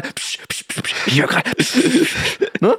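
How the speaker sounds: mocking shush, psch psch, half whispered; imitating shushing colleague. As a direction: brush someone off mid-edit with a shush. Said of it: "wenn ich Finn, den Audiomaster, anspreche". (Finn nachmachen, leicht gespieltes Abwimmeln mit Pschen)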